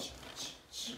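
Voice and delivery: imitated ch noise. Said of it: "I just hear that ch".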